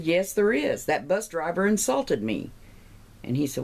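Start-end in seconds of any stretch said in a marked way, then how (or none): 0.0-2.5 huffy. Acted. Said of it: "the lady gets all huffy".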